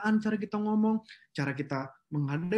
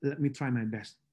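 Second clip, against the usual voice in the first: calm willing reply; 6 semitones lower, 5 dB quieter than usual. Retold or imitated. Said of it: "saya selalu bilang".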